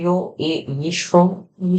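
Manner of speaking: ordinary talk, nothing marked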